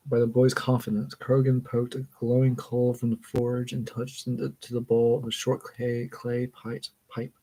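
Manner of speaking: measured, even read-aloud voice; story narration. A narrator's reading. Reader reading a book passage aloud, story narration. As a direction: read it out carefully, phrase by phrase.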